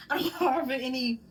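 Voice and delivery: giggling through the words after stumbling; laughing. Real, not acted. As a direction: laugh it out while speaking.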